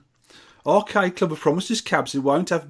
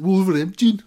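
"Wolverhampton" with a Black Country twang, pitched higher and louder and swallowed; Black Country accent; 6 semitones higher, 4 dB louder than usual. Retold or imitated. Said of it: "in that accent".

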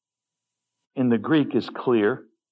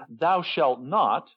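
stern commandment; 2 semitones higher, slower than usual. Retold or imitated. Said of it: "he begins every commandment with".

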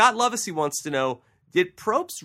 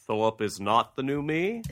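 Coach impression; 3 semitones lower than usual. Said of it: "this Coach impression".

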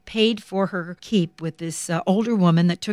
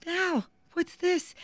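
curious friend; 11 semitones higher, 8 dB quieter, slower than usual. Retold or imitated. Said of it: "Shirley said".

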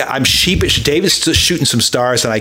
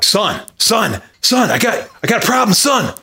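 high, mildly panicked plea; retold distress; 7 semitones higher than usual. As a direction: act out a friend urgently needing help. Acting out friend in trouble.

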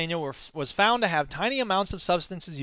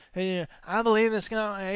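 Scott Walker; 4 dB quieter than usual. Retold or imitated. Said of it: "How would you do a Scott Walker impression?".

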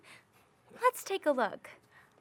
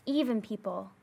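whisper; 5 semitones lower, 5 dB quieter than usual. Acted. Storyteller hushes voice.

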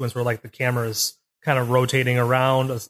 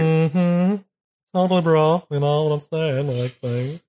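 valley dude voice; 2 semitones higher, slower than usual. Pretend. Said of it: "posh valley dude".

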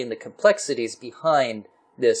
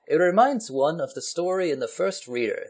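higher, lightly put-on English accent; 5 semitones higher than usual. Englishman answering over cards, mock English accent. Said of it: "the Englishman said".

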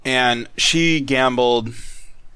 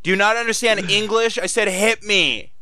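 sloppy outraged demand; drunk slurring; 9 semitones higher than usual. Retold or imitated. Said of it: "slurring her words".

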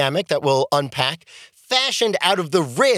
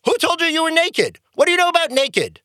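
incredulous God; 9 semitones higher than usual. Retold or imitated. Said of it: "And God says to him".

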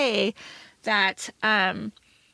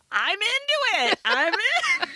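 much higher, giddy squeal; gushing excitement; 11 semitones higher, slower than usual. Retold or imitated. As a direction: swoon over the accent. Retelling her own gushing reply.

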